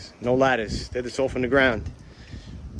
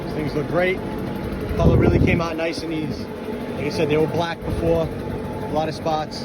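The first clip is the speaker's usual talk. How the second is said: yelling over leaf blower; 3 semitones higher than usual. Real, not acted. Sorry about the blower.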